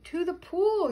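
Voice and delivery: high, loud rallying yell. A narrator's reading. Fireman calling out where to go, yelling. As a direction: call it out high and strong. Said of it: "yelled the fireman".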